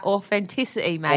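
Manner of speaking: "authenticity" with F for the TH; mock British "authenticity", TH turned into F. Wife jokes in fake British, "authenticity" said with an F. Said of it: "Is that with an, with an F?".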